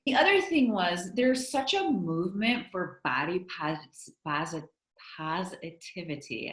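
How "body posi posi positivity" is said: stumbling over positivity, restarting the word; tongue-tied. Real, not acted. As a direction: trip on the word and try it once more. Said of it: "I'm getting tongue-tied".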